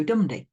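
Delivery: stressed "dum", then light "dee". Shown as a demonstration. Teacher showing another metre, "dum dee" stressed first. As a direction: hit "dum" first and let "dee" fall away. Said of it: "other, uh, ways of describing things".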